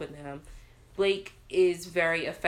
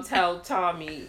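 ordinary talk

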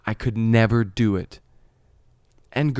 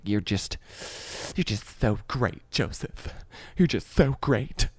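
slow, softened, mock-sweet; sarcastic praise; 4 dB quieter, slower than usual. Angry girl praising Joseph, slowly sarcastic. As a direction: drag out the compliment so it means the opposite. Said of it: "Most sarcastic thing".

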